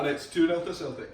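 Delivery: Scottish accent with a laugh in it. Shown as a demonstration. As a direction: cap the row in a Scottish accent.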